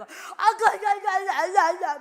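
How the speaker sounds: mock loud glossolalia; loud tongues imitation. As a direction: cry out in tongues at full voice. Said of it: "막 이러고 막 방언을".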